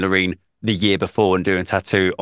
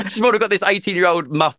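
laughing; 9 semitones higher, faster than usual. Real, not acted. Laughing through the story.

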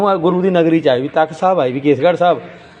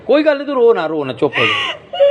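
soothing; 5 semitones higher than usual. Real, not acted. Comforting a crying woman.

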